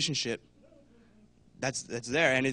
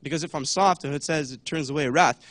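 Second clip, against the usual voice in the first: mock passive excuse; 6 dB louder than usual. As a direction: play the one hiding behind the verse. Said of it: "it's like".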